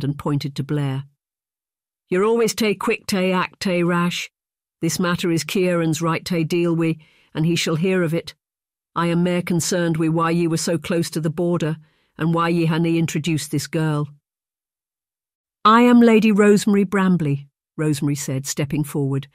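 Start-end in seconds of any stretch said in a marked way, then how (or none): 2.1-14.1 put-on old Highland chief. Old Ife chides his rash son in a Scots voice. 15.6-17.5 proud, raised and louder, nose in the air; haughty lady. Acted. Rosemary, offended at being called a girl, announces herself haughtily. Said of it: "lifting her nose up, offended".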